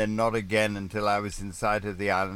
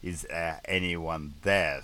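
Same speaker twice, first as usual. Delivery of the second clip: plaintive call; slower than usual. Retold or imitated. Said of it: "my plaintive".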